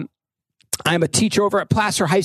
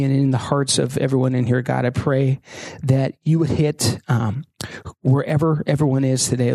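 prayer; 3 semitones lower than usual. Acted. Closing prayer.

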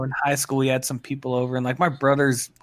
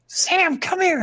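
high, louder mom calling up the stairs; 3 dB louder, much slower than usual. Retold or imitated. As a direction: call him like a mom from upstairs. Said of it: "she's like".

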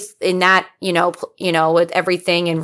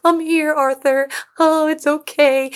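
comforting; 7 semitones higher than usual. Pretend. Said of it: "hug him and comfort him".

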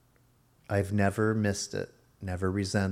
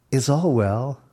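gentle greeting; 3 semitones higher, 6 dB louder than usual. Shown as a demonstration. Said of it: "as opposed to".

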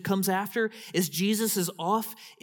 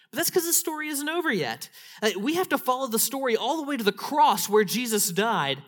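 rising preaching; 5 semitones higher than usual. Acted. Preacher to congregation, building to full-voiced preaching. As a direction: stir the congregation toward the cross.

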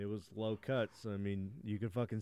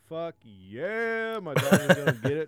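queen voice; 6 semitones higher, 9 dB louder than usual. Retold or imitated. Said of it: "She's like".

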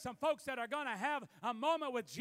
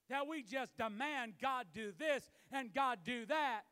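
preacher's shout. Real, not acted. Preacher denouncing demanding prayer.

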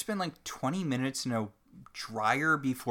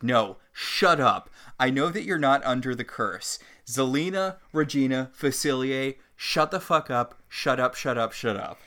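mock angry rant; 4 dB louder than usual. Zelena's retold tirade.

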